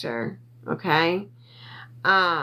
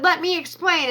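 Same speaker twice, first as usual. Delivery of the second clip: retold plea; 8 semitones higher than usual. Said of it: "I'm sorry for screaming".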